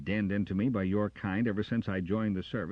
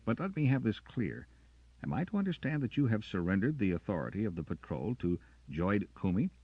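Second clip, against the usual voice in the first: louder, sharp ranger's retort; defiant challenge; 5 semitones higher, 5 dB louder than usual. Acted. Carter confronting the officer, louder and defiant. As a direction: throw his words back at him.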